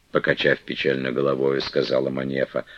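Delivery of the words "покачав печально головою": usual speaking voice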